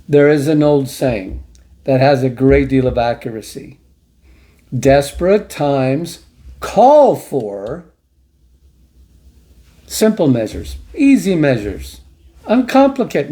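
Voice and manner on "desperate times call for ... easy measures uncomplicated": mock misquote. Shown as a demonstration. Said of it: "No, desperate times call for desperate measures".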